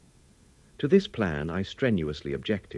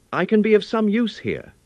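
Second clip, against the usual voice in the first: higher, louder eager nobleman voice; a keen young lord, pitched up and loud; Lord Godalming; 12 semitones higher, 8 dB louder than usual. Acted. Godalming offering his help to the group, higher and louder.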